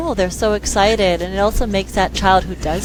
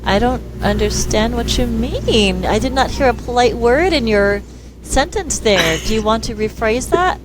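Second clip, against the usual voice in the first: feigned incomprehension; 3 semitones higher than usual. Retold or imitated. Parent feigning not understanding grunts.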